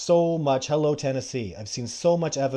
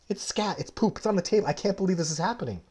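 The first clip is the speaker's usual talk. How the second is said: high, softer incredulous aside; aghast disbelief; 5 semitones higher, 3 dB quieter, faster than usual. Retold or imitated. Telling of scat on the restaurant table, aghast and incredulous. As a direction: relive the disbelief in a high, hushed voice.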